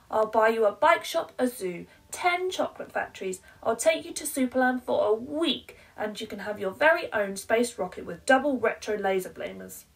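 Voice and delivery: high, loud and rushed promises; desperate bribing mum. Acted.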